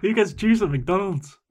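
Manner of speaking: high, loud echo of disbelief; incredulous outrage. Acted. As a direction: join in, scandalised and high. Listener joins the mock outrage.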